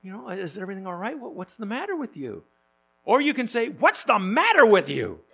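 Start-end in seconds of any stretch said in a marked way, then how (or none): 0.3-2.5 caring, higher-pitched but soft question; sincere concern. Shown as a demonstration. The preacher shows a sincere, caring what's the matter. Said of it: "it can be a sincere, uh, investigation". 3.7-5.2 louder, pointed what's the matter with you, stress on matter; accusing. Shown as a demonstration. The preacher shows an accusing what's the matter. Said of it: "To imply, you know, you already know what's the matter".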